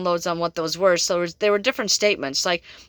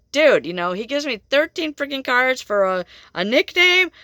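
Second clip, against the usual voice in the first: mock outrage at the ghost's joke; incredulous; 4 semitones higher than usual. Reader complaining about the spirit's prank, incredulous. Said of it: "I'm like".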